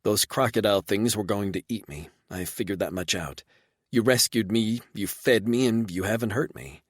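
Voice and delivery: woman explaining why she stayed; light sincere female voice; lightly voiced woman. Reba explaining.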